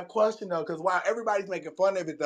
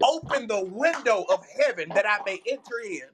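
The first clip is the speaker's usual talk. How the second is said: mock prayer; 3 semitones higher than usual.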